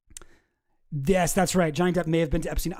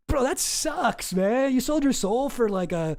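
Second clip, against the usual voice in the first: slow, higher, mocking disbelief; incredulous scorn; 5 semitones higher, slower than usual. Real, not acted. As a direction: drag it out in disbelief.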